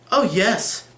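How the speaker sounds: careless. A narrator's reading. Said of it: "returned my lady carelessly".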